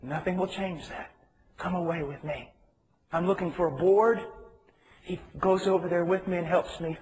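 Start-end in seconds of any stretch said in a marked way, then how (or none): 0.0-2.5 tender. Retold or imitated. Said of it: "God is screaming at me".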